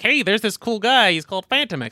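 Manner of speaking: high, loud, eager re-enactment; excited retelling. Retold or imitated. Fan replaying how they told a friend about a hero, excited.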